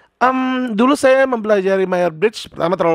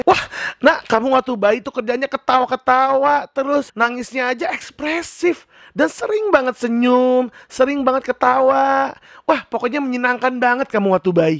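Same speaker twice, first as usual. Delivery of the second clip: cheerful mother; 5 semitones higher than usual. Acted.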